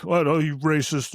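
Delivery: mock condescending. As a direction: imitate someone talking down in slow accusation. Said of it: "they were getting condescending".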